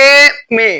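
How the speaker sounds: এমএ split, first vowel held long; এমএ pronounced slowly in two parts; sounding out. Shown as a demonstration. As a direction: draw out the start of এমএ, then land on "me". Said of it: "কি উচ্চারণ হচ্ছে?".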